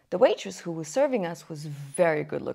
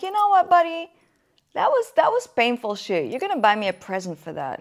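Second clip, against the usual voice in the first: mock demanding; 3 semitones higher, 5 dB louder than usual. Demanding present from boyfriend.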